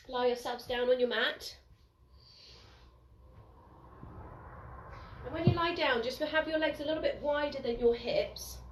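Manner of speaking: soft, unhurried yoga teacher voice with pauses; guided relaxation. Real, not acted. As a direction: gently guide them into noticing body and breath. Guides relaxation lying on mat.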